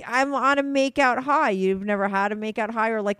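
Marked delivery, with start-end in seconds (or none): 0.1-1.5 giddy enthusiasm. Real, not acted. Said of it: "overly, um, enthusiastic now".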